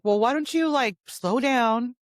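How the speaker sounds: high, drawn-out mock condescension; condescending. Speaker mimicking the man telling her to slow down, condescending. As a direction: stretch slow down to talk down. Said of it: "just very condescending".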